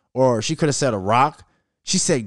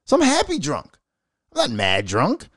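cocky Tory. Retold or imitated. Tory voiced, high.

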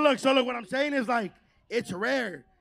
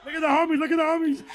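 shouting; 6 semitones higher, 7 dB louder, faster than usual. Real, not acted. Hyping crowd on stage.

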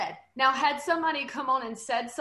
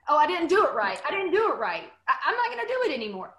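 a light mock whine, rising into a laugh; half-laughing mock despair; whiny insecure creator; 3 semitones higher, 4 dB louder, faster than usual. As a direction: lightly play a fretful beginner giving up. Imitating insecure new creator.

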